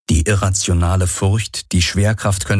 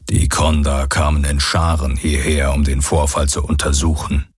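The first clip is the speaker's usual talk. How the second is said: lower, grave alien voice; lower, solemn voice of the Aur; 4 semitones lower than usual. Acted. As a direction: speak lower and weighty like an old being.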